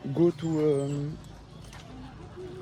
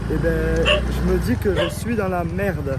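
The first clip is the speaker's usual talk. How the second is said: shouting over rain; 5 semitones higher, slower than usual. Real, not acted. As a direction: call out over the downpour. Shouting over a tropical storm.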